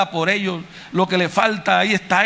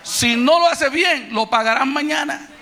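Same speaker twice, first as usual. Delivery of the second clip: preaching shout; 5 semitones higher than usual. Real, not acted. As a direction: call it out to the whole congregation. Preacher drives home the moral. (grito de predicador, más agudo y fuerte)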